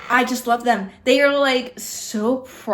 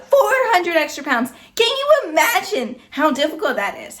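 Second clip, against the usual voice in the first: raised, higher-pitched emphatic appeal; emphatic escalation; 6 semitones higher than usual. Real, not acted. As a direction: push it up in amazement.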